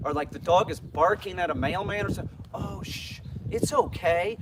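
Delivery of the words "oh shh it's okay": put-on very slow, drawn-out, reassuring baby talk. Imitating someone soothing a dog barking at the mailman: imitating baby talk to a dog. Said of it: "talk baby talk to that dog".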